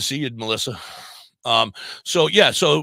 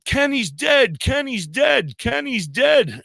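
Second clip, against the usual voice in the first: high, loud, terrified repeating; a kid in shock crying out over and over; panicked screaming; 11 semitones higher, 4 dB louder, slower than usual. Retold or imitated. Boy in the back shouting to the driver, high and terrified. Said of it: "the one kid is going".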